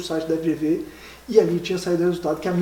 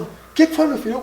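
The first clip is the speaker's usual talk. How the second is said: higher, anxious dad asking; imitating a worried father; 8 semitones higher than usual. Imitating his father asking what happened at the airport. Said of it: "e ele falando".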